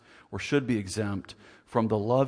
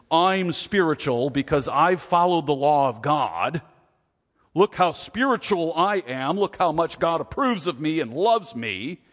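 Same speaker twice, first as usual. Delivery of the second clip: puffed-up self-praise, louder; smug boasting; 3 semitones higher, 5 dB louder than usual. Retold or imitated. Mocking the legalists to the church, smug boasting. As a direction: strut it like a proud show-off. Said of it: "some people were saying".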